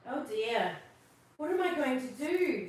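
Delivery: worried Santa. Acted. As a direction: fret as Santa.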